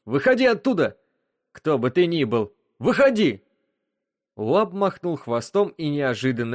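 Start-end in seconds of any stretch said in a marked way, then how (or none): 0.0-3.4 much higher furious command; furious shout. Acted. The captain shouts at whoever hides inside the wub, furious. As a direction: shout it at the beast in rage. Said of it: "Франко яростно сжал кулаки".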